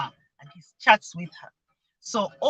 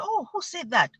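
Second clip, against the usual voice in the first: light, raised "oh" of curiosity; imitated voice question; 5 semitones higher than usual. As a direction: gently coax out who said it. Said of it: "And I'll imitate the voice".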